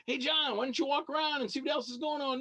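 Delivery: nudging the lingering fan away politely; polite brush-off. Retold or imitated. Lightly voiced host easing a fan on. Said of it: "And I finally had to say".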